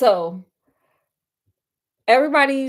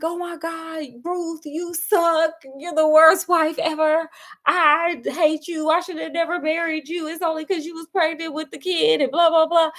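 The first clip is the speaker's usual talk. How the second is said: higher-pitched imitation of a husband blowing up at his wife; mock angry husband; 5 semitones higher than usual. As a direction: play the husband finally snapping, hammed-up. Husband finally loses it at dinner.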